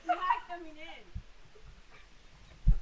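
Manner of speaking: drawn out very slowly. Real, not acted. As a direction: stretch each word out. Refusing through door.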